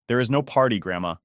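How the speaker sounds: trembling, upset voice; shaking voice. Acted. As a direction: let the voice shake as she tells. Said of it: "my voice shaking".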